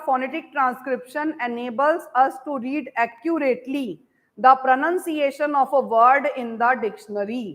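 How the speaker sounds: very slow, word by word English dictation. Shown as a demonstration. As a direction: dictate each word slowly so students can write. Teacher dictating English sentence.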